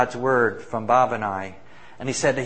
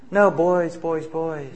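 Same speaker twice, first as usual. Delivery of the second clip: laughing while quoting; 3 semitones higher than usual. Real, not acted. Retelling elder's words, breaks laughing.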